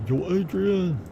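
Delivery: high-pitched catchphrase holler; mock calling out. Teasing with a Rocky catchphrase, high mock call.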